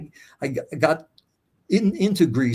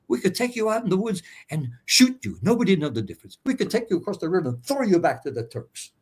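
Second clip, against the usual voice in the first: menacing officer; 6 semitones higher than usual. Retold or imitated. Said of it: "He said".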